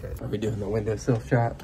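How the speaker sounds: hushed whisper. Real, not acted. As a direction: keep it to a whisper. Whispering in hospital hallway.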